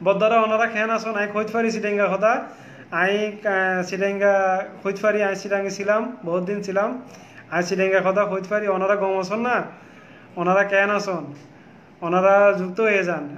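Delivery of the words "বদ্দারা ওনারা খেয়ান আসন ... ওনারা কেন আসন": Chittagong Bengali, shown off; Chittagonian dialect. Shown as a demonstration. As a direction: greet viewers in Chittagonian dialect. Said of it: "আমি চিটংয়ের কথা বলতে পারি".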